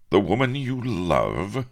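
high, slow, astonished question; stunned lover's query, pitch swooping; breathed amazement. A narrator's reading. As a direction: draw it out in wonder. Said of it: "breathed Avery".

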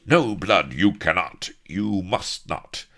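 high, loud cry slowing at the end; alarmed cry. A narrator's reading. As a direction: forbid him in sudden alarm. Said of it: "in sudden alarm, cried from the deck".

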